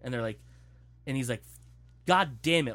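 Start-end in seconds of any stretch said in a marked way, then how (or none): 2.1-2.7 loud, raised-pitch mock cursing; exasperated outburst. Retold dad scolding his family after the twins wake, exasperated. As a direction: curse at the whole family as the fed-up dad.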